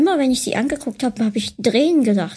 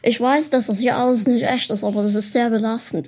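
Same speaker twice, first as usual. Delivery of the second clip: put-on American accent in German. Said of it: "in amerikanischen Akzent zu sprechen".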